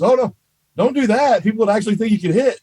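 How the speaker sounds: quick sarcastic jab at the hitter; sarcastic quip. Retold or imitated. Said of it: "that dry sense of humor".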